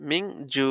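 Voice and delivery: মিং জু with "ju" held long, closed on a throat ain; long stretch when stopping. Shown as a demonstration. Teacher showing the breath stop, long stretched vowel. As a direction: draw out জু, then stop in the throat. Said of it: "যদি দম ফেলান তাহলে হবে".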